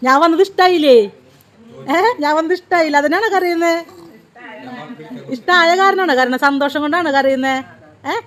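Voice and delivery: gently pleading with a weeping grandmother; coaxing a crying elder. Real, not acted. Soothing a crying old woman.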